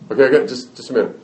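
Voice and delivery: lightly voiced kid putting Mom off; stalling child. Child stalling mother in acted story.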